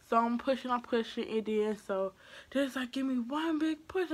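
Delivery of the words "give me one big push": tag. Retold or imitated. Retold coaching during the birth.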